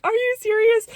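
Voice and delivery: very high-pitched squeal of amazement; stunned disbelief. Retold or imitated. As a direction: squeak it out, unable to believe the news. Stunned reply to great news.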